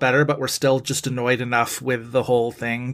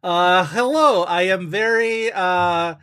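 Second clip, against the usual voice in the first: hearty greeting; 3 semitones higher than usual. Pretend. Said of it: "I'm mostly doing Zoya the Destroyer from Glow".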